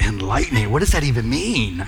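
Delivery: puzzled retold question; baffled. Recalling his younger self hearing an unknown word from Doug, baffled. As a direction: say it as someone totally thrown by the word.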